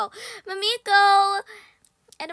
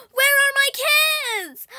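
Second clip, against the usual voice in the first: angry mother; 8 semitones higher, 8 dB louder, much slower than usual. Acted.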